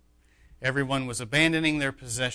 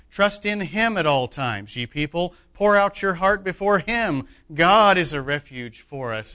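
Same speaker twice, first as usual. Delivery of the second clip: preacher giving the Psalm full weight, building in force; emphatic scripture reading. Shown as a demonstration. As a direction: read the verses as if proclaiming them. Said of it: "I'm gonna read it with emphasis".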